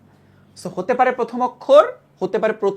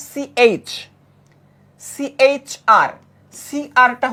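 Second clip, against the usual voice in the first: drawn-out letters সিএইচআর; slow sounding out; 3 semitones higher, 4 dB louder, much slower than usual. Shown as a demonstration. Teacher slowly sounds out letters for the class. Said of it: "উচ্চারণ করতে গেলে".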